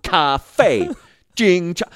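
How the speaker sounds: high, loud back-and-forth, laughing through it; laughing childish squabble; childish argument. Retold or imitated. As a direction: squabble like a kid, cracking up. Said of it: "this childish argument".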